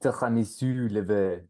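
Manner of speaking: put-on French accent. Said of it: "your French accent is scrumptious".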